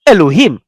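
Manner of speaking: "Elohim" with the weight on him; stress on last syllable. Shown as a demonstration. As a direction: lift the final him of "Elohim". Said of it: "last syllable".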